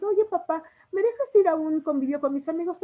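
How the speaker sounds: pleading daughter. Shown as a demonstration. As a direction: sweet-talk your father into a yes. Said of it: "hasta la entonación de la voz nos cambia". (hija suplicando al papá)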